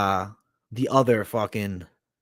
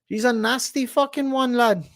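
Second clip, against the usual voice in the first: mock put-on voice; 13 semitones higher than usual. Mock voice insulting Demi.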